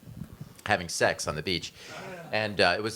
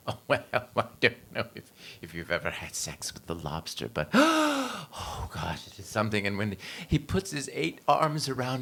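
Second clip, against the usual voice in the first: swooning oyster; 3 dB quieter than usual. Retold or imitated. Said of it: "and the oyster said".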